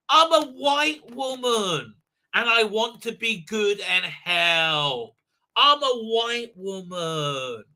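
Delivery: slow, drawn-out mock self-pity; lightly voiced pitying woman, stretched slow; mock whiny woman. Mocking white woman again.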